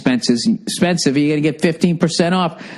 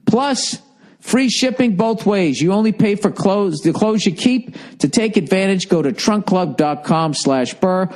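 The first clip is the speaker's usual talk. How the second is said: usual speaking voice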